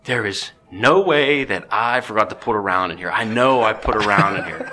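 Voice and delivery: can't believe it misfired, building up; retold disbelief, laughing. Disbelief after rifle clicks.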